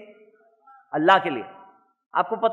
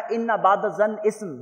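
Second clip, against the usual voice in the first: Quran recitation; slower than usual. Acted. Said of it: "اللہ تعالیٰ نے فرمایا".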